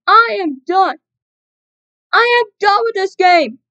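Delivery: fed-up angry rant; raging gamer. Real, not acted. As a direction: declare you quit, fuming. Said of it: "I had an enrage".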